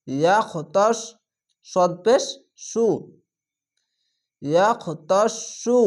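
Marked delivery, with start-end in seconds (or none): 4.4-5.8 ইয়াখতাসু chanted very slowly, syllables stretched; slow recitation. Shown as a demonstration. Teacher recites the word again for the class, slow. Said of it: "মোটা করে পড়বেন".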